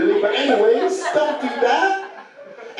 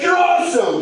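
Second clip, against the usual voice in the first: imitated child's cheer. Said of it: "He couldn't have yelled".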